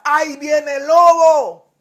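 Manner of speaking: slow, frightened shout of the wolf's arrival; terrified boy's cry for help; scared shout. Acted. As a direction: yell for help, truly scared this time. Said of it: "el niño asustado entra ... y grita".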